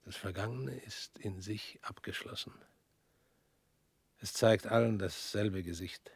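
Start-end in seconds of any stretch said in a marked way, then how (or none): 0.0-2.5 soft voiceless whisper. Acted. Man whispering to his former defendant about the past. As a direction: say it like a private truth. Philosophical musing.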